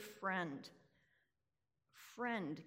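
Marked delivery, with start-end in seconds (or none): 1.9-2.6 soft, gentle address; quiet, kind greeting; compassionate. Retold or imitated. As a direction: call him friend tenderly. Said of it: "compassionately," he speaks".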